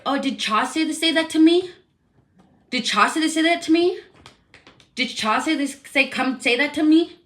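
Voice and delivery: sarcastic high-pitched imitation of a coworker; mocking whiny repeat. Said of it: "she was like".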